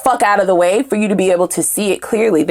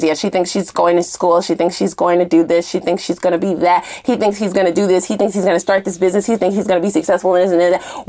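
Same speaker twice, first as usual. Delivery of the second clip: mocking gossip; 3 semitones lower than usual. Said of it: "I can almost hear conversation telling their friends".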